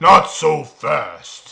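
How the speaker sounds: very loud, booming, rasping, rough-edged bellow. Player retells yelling at a man walking out of the bar: retelling a Goliath-voice yell. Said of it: "in my loudest, loudest Goliath voice".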